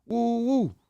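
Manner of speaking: mocking disgust. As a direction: throw his own catchphrase back at him in disgust. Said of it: "I'm like".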